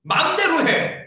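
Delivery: loud, high, drawn-out mock ultimatum; slow, exasperated mock outburst; exasperated parent. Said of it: "가장 센 게".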